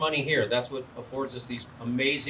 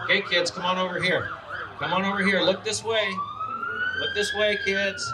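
calling out; 6 semitones higher than usual. Real, not acted. Calling kids over for Santa.

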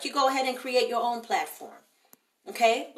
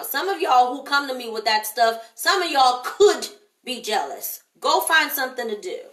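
call out; 5 dB louder than usual. Real, not acted. Calling out jealous critics.

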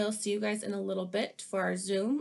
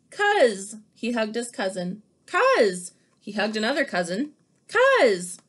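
excited greetings; 7 dB louder than usual. Acted. Fly greets cousins, repeated.

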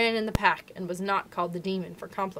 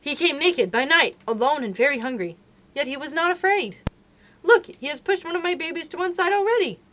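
fierce tenderness; 5 dB louder than usual. Acted. Mother wolf vowing to keep the man cub, passionate.

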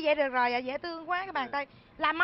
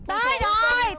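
higher and louder, announce it excitedly; excited shout; 6 semitones higher, 6 dB louder, slower than usual. Acted. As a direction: burst in with the news. Announcing the groom arrived.

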